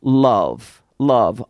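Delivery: low, drawn-out "love"; low weighty repeat of "love"; lingering on love. Shown as a demonstration. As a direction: say "love" low and let it sit. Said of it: "stop and think about".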